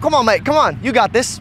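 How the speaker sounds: cheery mock British mate; put-on British football mate; fake British accent. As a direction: lay on a jokey London accent. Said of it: "pretend I'm British".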